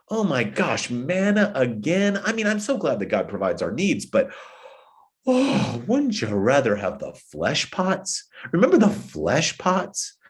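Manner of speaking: mock whiny complaint about the manna; hammed-up moaning of bored people; imitating the people tired of manna; mock grumbling. Mimicking grumbling Israelites.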